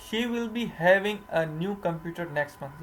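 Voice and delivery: slow, deliberate read of the wrong sentence; wrong version. Shown as a demonstration. Teacher reading the wrong sentence to students, slowly. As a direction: spell out "She will be having" slowly as the wrong example. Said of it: "ये बिल्कुल गलत है".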